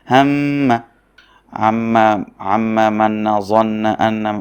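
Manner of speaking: loud, slow spelling of each syllable; recitation drill. Shown as a demonstration. Teacher reciting tashdid examples for students. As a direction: spell out each pair, then join it with a held doubled consonant, as in আম্মা. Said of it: "যেমন".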